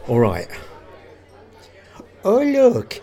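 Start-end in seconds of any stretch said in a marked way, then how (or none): 2.2-2.9 measured mock-German delivery; German accent. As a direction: play an admiring German student. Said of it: "Hans is German".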